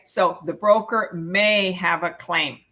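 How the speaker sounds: may pushed a little, then a pause; stress on may. Shown as a demonstration. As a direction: lean on may, not on broker. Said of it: "Keyword may".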